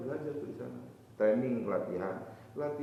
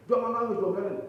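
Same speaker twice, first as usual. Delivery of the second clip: higher, louder "jangan nangis" repeated; urgent hushing; 9 semitones higher, 7 dB louder than usual. Acted. Preacher voicing an adult loudly telling a crying child to stop.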